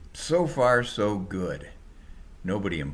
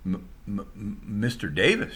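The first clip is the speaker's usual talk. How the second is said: stammering. Acted. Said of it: "she kind of stammered".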